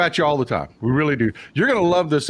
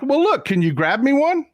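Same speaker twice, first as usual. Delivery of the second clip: high, incredulous request, much higher; pleading ask; 10 semitones higher than usual. Retold or imitated. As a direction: beg the clerk for a copy. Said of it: "'Cause I'm like".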